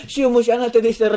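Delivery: fast hedging mumble; grumbling mumble. Shown as a demonstration. Preacher mocking doubtful prayer while sinking, mumble. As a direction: rattle it off under your breath. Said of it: "ブツブツブツ言ってしまいます".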